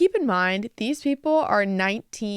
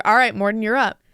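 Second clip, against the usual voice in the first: retold call-out; 6 dB louder than usual. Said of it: "then he was like".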